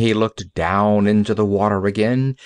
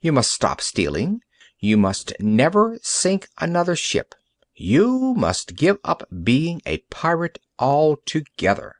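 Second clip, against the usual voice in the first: stern doctor; 7 semitones higher than usual. Acted. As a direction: lay down the law to a pirate. Doctor lays down terms.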